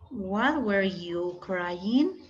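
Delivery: very slow, carefully spaced English question; slow classroom English demo; slow model sentence. Shown as a demonstration. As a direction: lay out each word for the class. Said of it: "qué podríamos decir con what".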